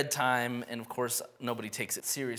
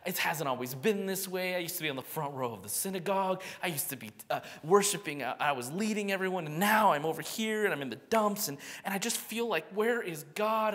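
conflicted David; 6 semitones higher than usual. Retold or imitated. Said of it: "He's disoriented, he's confused, but he's also conflicted".

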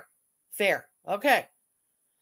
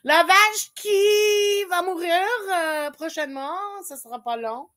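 tag; 7 semitones higher, 5 dB louder than usual. Pretend. Hammed-up French nickname after laughing.

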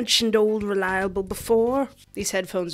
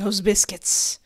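laughing craving; slower than usual. Real, not acted.

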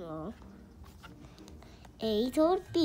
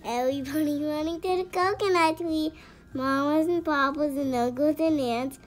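louder, lively storybook read; excited loud reading; 2 semitones higher, 6 dB louder than usual. Acted. Lively climax of the rhyme.

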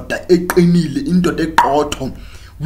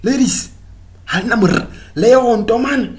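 mock catcall; 8 semitones higher than usual. Imitating men calling the ladies.

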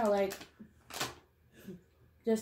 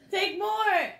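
words through a laugh; 8 semitones higher, 4 dB louder than usual. Real, not acted. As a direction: laugh while you say it. Laughing hard.

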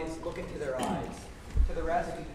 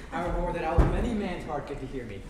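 boastful loud; 7 dB louder than usual. Acted. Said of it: "Let me play the lion too".

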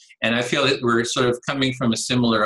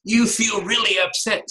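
higher, energetic reflection; mirroring an upset person with energy; matched intensity; 9 semitones higher than usual. Shown as a demonstration. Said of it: "matching the level of their intensity".

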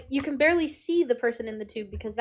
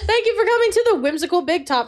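announcer voice; 7 semitones higher, 6 dB louder, faster than usual. Acted. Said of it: "announcer voice".

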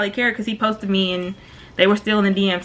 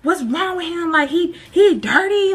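higher, hammed-up outraged bestie with a fake sob at the end; imagined supportive friend; 5 semitones higher than usual. Best friend imagined backing her up, higher and mock outraged. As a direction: play the loyal friend ready to fight. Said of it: "you would've thought she would've been like".

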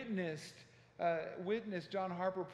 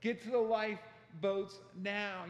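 mildly raised, urgent preacher's call; retold yelling; 3 semitones higher than usual. Harper pounding on cabin doors, imitated yelling. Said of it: "he started yelling out".

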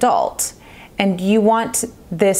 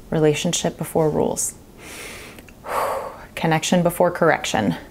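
calm mantra; 2 semitones lower, 4 dB quieter than usual. Retold or imitated. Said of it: "I will say".

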